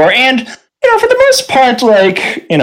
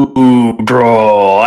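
slow giant word; much slower than usual. Acted. GM voices giant speech.

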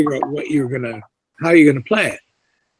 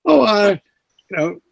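casting director voice; 4 semitones higher than usual. Retold or imitated. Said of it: "they'll say".

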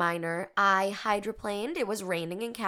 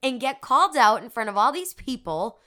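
exasperated complaint; 4 semitones higher, 6 dB louder than usual. Retold or imitated. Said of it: "I'm like".

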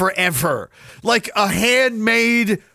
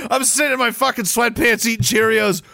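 ordinary talk, nothing marked

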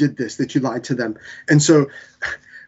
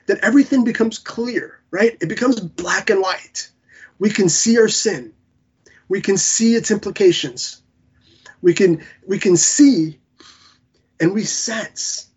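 emotional; 4 semitones higher than usual. Real, not acted. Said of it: "I apologize for getting emotional".

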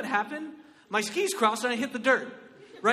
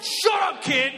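mock snap; 5 semitones higher, 6 dB louder, slower than usual. Snapping back at kid.

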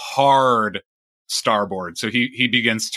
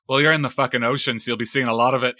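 laughing; 3 semitones higher, faster than usual. Acted. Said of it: "he's like".

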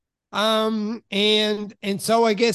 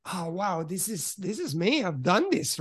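hushed inner thought; 6 dB quieter than usual. Retold or imitated. Retold proud inner thought.

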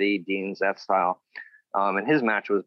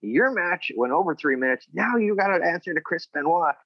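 high, raised voice of a lecturing boss; scolding Arn; 9 semitones higher than usual. Retold or imitated. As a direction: play the boss chewing him out. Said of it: "he's like".

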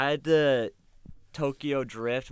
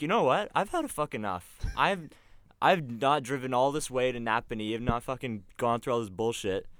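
raised pitch, mock indignation; retold fed-up rant; 3 semitones higher, 3 dB louder than usual. Retold fed-up rant at other driver.

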